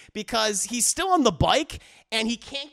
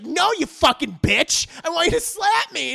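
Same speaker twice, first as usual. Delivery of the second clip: mock angry demand; 8 semitones higher, 4 dB louder than usual. Wife demands to be slapped.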